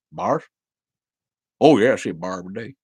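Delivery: a fast, mild take on a Tennessee local; quoting the Tennessee man in a light Tennessee accent, fast. Retold or imitated. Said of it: "making fun of an accent".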